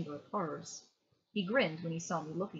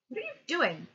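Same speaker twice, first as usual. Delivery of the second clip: put-on higher-pitched small child's question; little sister voice; 8 semitones higher, 3 dB louder than usual. A narrator's reading. Little sister questioning her brother, high child voice.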